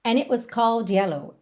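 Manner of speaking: "it" cut short with no T, London style; unreleased T. Shown as a demonstration. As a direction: clip "it" abruptly, drop the T. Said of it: "esse it não tem o som do T". ("it" cortado, sem o som do T)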